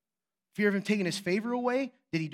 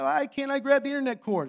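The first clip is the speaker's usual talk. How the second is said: higher-pitched toddler protest, imitated; mock crying; 6 semitones higher, 4 dB louder than usual. Baby daughter denied the internet cord, mock-crying. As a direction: imitate a child's tearful complaint, lightly. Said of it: "she even cried".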